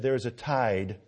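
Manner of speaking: thundering call to sign the Declaration; John Witherspoon speech. Retold or imitated. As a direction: orate like a pastor rousing the signers. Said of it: "He said".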